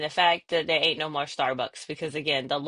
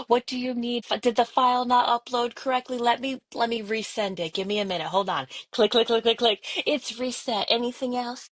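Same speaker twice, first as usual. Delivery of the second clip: higher, polished customer-service voice; Harvard voice; 6 semitones higher than usual. Acted. Employee helping auditor with a file, Harvard voice. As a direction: switch into helpful professional phone mode. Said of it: "here comes the Harvard voice".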